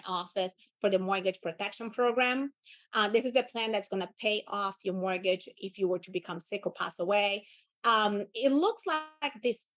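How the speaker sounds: low, unhurried, matter-of-fact caller; assumptive script read. Shown as a demonstration. Benefits caller to Belle, calm and assumptive. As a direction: state it, don't ask it. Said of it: "you're gonna be".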